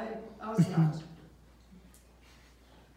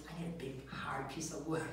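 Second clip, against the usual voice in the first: imitated customer voice; 8 semitones lower, 11 dB quieter than usual. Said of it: "In their voice, they say stuff".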